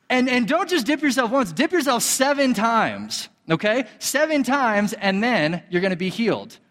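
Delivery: lightly voiced prophet, rising on the commands; insist, half amused, seven times; voicing the prophet. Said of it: "the prophet Elijah tells him".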